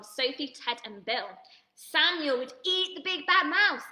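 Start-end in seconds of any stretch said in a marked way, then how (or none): 1.8-3.9 excited surprise. Real, not acted. Teacher reads surprising child suggestion.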